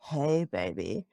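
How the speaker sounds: slow, soft, creepy come-on; drawn-out ghostly greeting, a hint of menace; creepy spirit voice. A spirit whispering into her left ear on the pillow, slow and creepy. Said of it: "it was so creepy".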